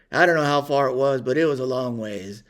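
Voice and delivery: ordinary talk, nothing marked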